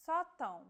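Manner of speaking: sótão stressed on the open SÓ with a nasal ão ending; nasal vowel demo. Shown as a demonstration. Teacher shows stress with tilde to learners. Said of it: "like in this case".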